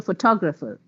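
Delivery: "photographer" with TOG stressed; stress on second syllable. Shown as a demonstration. Teacher showing how stress clarifies words, second-syllable stress. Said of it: "If the word is on the second syllable".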